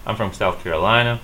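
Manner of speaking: "Carolina" with the weight on "li", as LINE; care-uh-LINE-uh for "Carolina"; English stress on LI. Shown as a demonstration. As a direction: stress the third syllable of "Carolina". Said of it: "we stress the lie".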